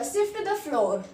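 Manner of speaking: slow and deliberate; slow model phrase for students; slow teaching repeat. Shown as a demonstration. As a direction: lay out each word slowly. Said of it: "ऐसे बोलेंगे हम".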